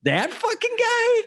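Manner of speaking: high, squeaky, stunned disbelief; you can't believe who she married; incredulous disbelief. Retold or imitated. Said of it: "And I'm like".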